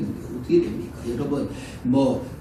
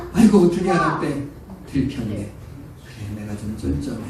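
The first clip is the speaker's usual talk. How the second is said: humble admission; 2 semitones lower than usual. Retold or imitated. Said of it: "이렇게 말해야 돼요".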